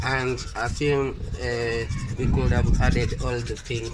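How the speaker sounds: toothbrush in mouth; mumbling through toothpaste foam; brushing teeth while talking. Real, not acted. Seen 1: Toothbrush in mouth, actively brushing throughout the labelled words.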